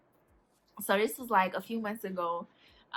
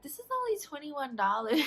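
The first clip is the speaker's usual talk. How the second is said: laughing through the quote; 5 semitones higher than usual. Retold or imitated. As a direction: laugh so hard the line breaks. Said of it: "She's like".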